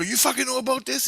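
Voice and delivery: high-pitched, retold disbelief; incredulous. Storyteller to native guy in the bar, incredulous. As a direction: ask it amazed, voice jumping up high.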